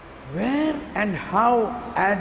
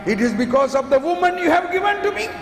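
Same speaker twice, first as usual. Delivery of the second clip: defensive Adam; 6 semitones higher, much faster than usual. Acted. Adam blaming the woman.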